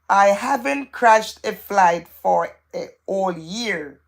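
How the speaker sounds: slow, deliberate read-out. Shown as a demonstration. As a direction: read it out very slowly, word by word. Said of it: "I'm gonna read it very slowly".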